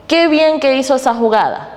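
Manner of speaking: bright exclamation, pitched high on qué; exclamatory delivery. Shown as a demonstration. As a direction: exclaim it like praising a great play. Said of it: "le da esa entonación".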